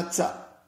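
التاء said as tsa, with an s after the t; regional Algerian pronunciation. Shown as a demonstration. Teacher showing a regional habit, t turned to ts. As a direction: release the t of تاء into a hiss of s. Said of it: "يضيفون إليه السين".

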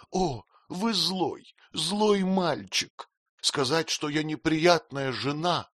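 high, slow tearful wail; tearful cry. A narrator's reading. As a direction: wail it through tears. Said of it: "закричала Дора, заливаясь слезами". (плачущий вскрик, выше и медленнее)

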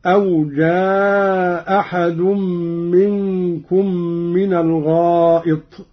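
جاء أحد with a hamza dropped and the vowel kept short; Qalun reading, short. Shown as a demonstration. Teacher demonstrates the short option of Qalun's reading. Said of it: "القصر والمد، والقصر مقدم".

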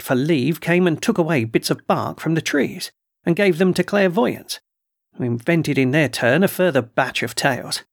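a hint of a put-upon colonel, complaining; gruff colonel voice. Colonel complains to the doctor about trespassers, mildly indignant.

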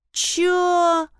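high, drawn-out amazed "Чё?"; stunned drawl. A narrator's reading. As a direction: stretch it in disbelief. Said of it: "изумлённо протянула Лариса".

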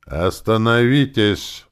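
loud and slow, commanding; rumbling command. A narrator's reading. Druid halts the archer, slow loud command. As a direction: stop them with a booming word. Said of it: "пророкотал другой друид".

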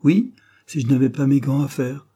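loud, high angry retort. A narrator's reading. Wife answering husband about her work, loud anger. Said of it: "d'une voix tremblante de colère".

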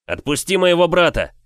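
loud furious yell, pitch well up. Acted. Younger brother yells at the brute to release his brother, furious shout. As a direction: scream it at the giant to let go. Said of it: "заорал я".

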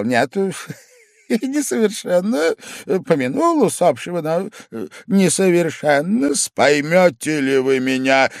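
high, giggling, tipsy reply; flustered drunk. A narrator's reading. Startled drunk guest answers his angry host. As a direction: laugh it off, drunk and caught out. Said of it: "несколько оторопел".

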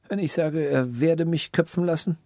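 soft, anxious inner reasoning; quick private thought. A narrator's reading. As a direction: think it through under your breath. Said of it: "dachte der Weise rasch".

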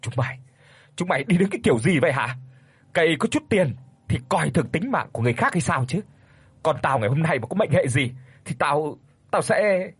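furious father cursing the driver who injured his daughter; angry cursing. Acted. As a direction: berate them for their recklessness. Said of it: "kéo phắt dậy mà cất cái giọng chửi bới".

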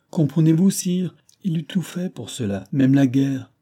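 insistent plea; urgent insistence. A narrator's reading. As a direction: make him understand. Marie urgently argues with the king.

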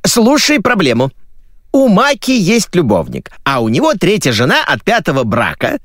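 high-pitched, eager mother's voice; gossiping mother. Acted. Mother telling her son about a friend's lover, gossipy. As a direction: launch into gossip in a high woman's voice.

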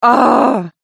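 a sharp loud cry of agony; pained cry. Acted. Tortured prisoner crying out, loud and sharp. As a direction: let out a loud pained shout. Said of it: "лицо его сжалось".

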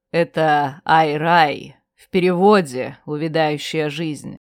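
a heavy, measured warning; low grim explanation. Acted. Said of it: "Он говорил негромко". (негромко и мрачно)

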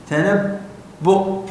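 تنبؤ stretched very slowly; slow spelled-out word. Shown as a demonstration. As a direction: draw out تنبؤ for the class. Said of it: "كيف تكتبها؟". (تنبؤ ببطء شديد للطلاب)

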